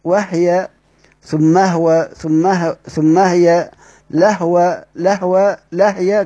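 each هو and هي joined to the word before with a vowelless h; "wah-ya, thummah-wa, lah-wa", closing on the h; sukun reading. Shown as a demonstration. Teacher lists Qalun's forms for students, h without a vowel. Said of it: "أو ثم بتسكن".

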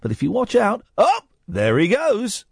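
lightly voiced clip-show narrator; pet-clip show voiceover. Host showing off his cat-video voiceover, clip-show narrator. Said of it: "when cats do the daftest things".

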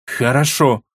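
cold, hard queen's reply; cold and metallic. Acted. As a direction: say it with steel in the voice. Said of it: "в голосе королевы послышался холод и металл".

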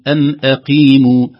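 "أقيموا" smooth, q only lightly heavy; unforced qāf. Shown as a demonstration. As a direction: let q in "أقيموا" slide into a clean ee. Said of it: "حتى تخرج سلسة بدون تكلف". («أقيموا» سلسة بدون تكلف)

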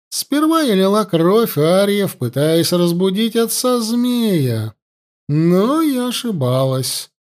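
высоко и медленно, зловещая жрица; тянет слова, упиваясь властью над пленницей; властная ситха. Acted. Ситха говорит с пленной царевной. (голос злобной жрицы, выше и медленнее)

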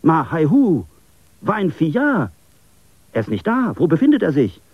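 high, loud, alarmed calling out; frightened call, pitched high; frightened cry. A narrator's reading. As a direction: call out in sudden fright for his friend. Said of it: "rief er erschrocken aus".

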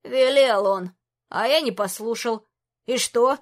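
a lightly voiced cranky old wizard; grumpy old mage. Old mage Shozu scolds the king, cranky.

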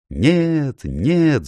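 high shouted denial; crowd shouting. A narrator's reading. The beasts shout back at the soldier, high cry. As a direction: cry out no in alarm. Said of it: "закричали почти все".

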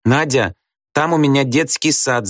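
put-on little girl calls out upset; shouting. A narrator's reading. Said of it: "закричала Тата". (крича, детским голосом)

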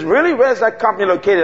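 retold disbelief, voiced up high; surprised woman.

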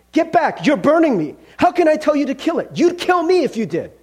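high-pitched, alarmed outcry; acted panic. Ghost burned by the angel's hands, panicked. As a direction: recoil in pain and protest.

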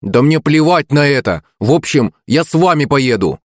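high-pitched, insistent protest; defiant boy. A narrator's reading. Son demanding to join his parents, defiant.

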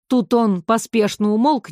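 ordinary delivery, nothing marked

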